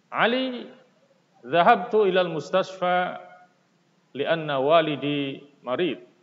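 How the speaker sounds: a teacher modelling intonation; expressive reading with intonation. Shown as a demonstration. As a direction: lively rise and fall, a model dialogue read aloud. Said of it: "perhatikan intonasinya, naik turunnya".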